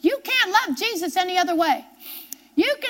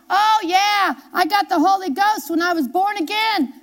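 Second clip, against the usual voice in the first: mocking the congregation; 3 semitones higher, 3 dB louder than usual. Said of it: "I hear some of you right now".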